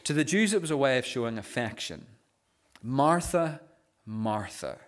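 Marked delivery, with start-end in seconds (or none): 2.8-4.8 tender. Retold or imitated. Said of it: "Th-, think of his tone here".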